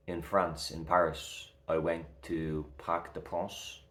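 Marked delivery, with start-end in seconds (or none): 2.8-3.8 light French accent. Shown as a demonstration. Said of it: "I'm getting a little French accent".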